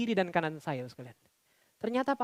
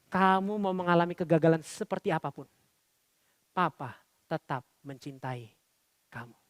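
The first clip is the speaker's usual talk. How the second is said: tender slow reassurance; 2 semitones lower than usual. Retold or imitated. Father's loving words, slowed.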